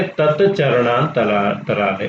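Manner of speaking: तत्चरणांतरा- said slowly, split at the joint after तत्; teacher breaking up the compound slowly; slow split word. Shown as a demonstration. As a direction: spell out तत्चरणांतरा- slowly so the join shows. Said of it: "तच्चरणांतराले".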